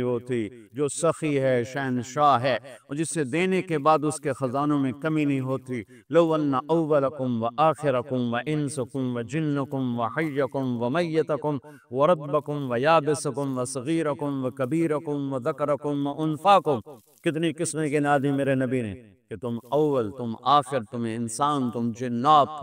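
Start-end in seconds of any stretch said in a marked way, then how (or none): 6.1-16.8 slow, measured Arabic recitation; hadith recitation. Acted. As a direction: intone the hadith deliberately. (آہستہ، ٹھہر ٹھہر کر حدیث کی تلاوت)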